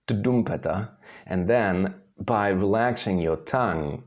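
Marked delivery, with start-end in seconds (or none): 0.1-0.9 tdumpeta with D replacing R; D first. Shown as a demonstration. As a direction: begin trumpeta with T plus D. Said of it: "you say first".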